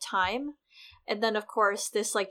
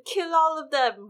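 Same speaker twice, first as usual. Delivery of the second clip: mock shout, much higher and louder; yelling; 7 semitones higher, 5 dB louder than usual. Joffrey ordering a massacre, a mock shout. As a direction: order it like an unhinged boy king. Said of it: "He's just yelling".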